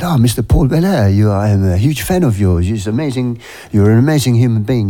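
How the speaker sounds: put-on a light French accent, gushing fan; mock French admirer, starting high. French fan gushing to a singer, in a light French accent. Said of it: "in his French accent".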